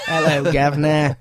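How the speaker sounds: lightly hammed Cockney greeting; amateur comic attempt at Cockney; mock Cockney accent. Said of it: "Is that a Cockney accent?".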